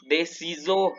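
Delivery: "ciseaux" with a buzzing Z in the middle. Shown as a demonstration. Teacher illustrates the rule, "ciseaux" with a Z sound. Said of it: "se pronuncia como una Z".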